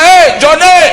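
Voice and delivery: high, loud hail; earnest calling. Shown as a demonstration. Preacher shows calling someone in earnest, shouting. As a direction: shout as if you really mean it. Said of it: "Kalau Anda bersungguh-sungguh".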